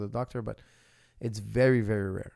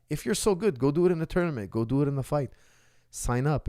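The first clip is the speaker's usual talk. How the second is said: higher, scornful dare to braggarts; challenging; 4 semitones higher than usual. Real, not acted. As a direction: call out the show-offs.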